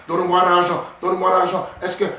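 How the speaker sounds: lightly put-on Romanian accent, begging for money; a hint of a Romanian accent asking for cash; mock Romanian accent. Preacher imitates a Romanian beggar, light Romanian accent. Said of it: "c'est qui un Roumain".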